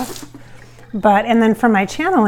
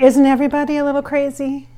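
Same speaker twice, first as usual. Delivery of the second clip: Marilyn's musing; 5 semitones higher, 4 dB louder than usual. Retold or imitated. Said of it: "That's the kind of thing she has".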